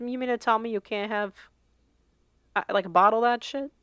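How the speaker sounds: a hint of Italian accent slipping in; mildly Italian-accented disbelief; slight Italian accent. Real, not acted. Host unknowingly slips into an Italian accent while reading. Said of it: "you accidentally slipped into the Italian accent".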